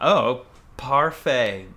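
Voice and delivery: slow hammed-up French accent; foreign accent in french. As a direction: say it slowly like a mock Frenchman. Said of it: "my French is beaucoup good".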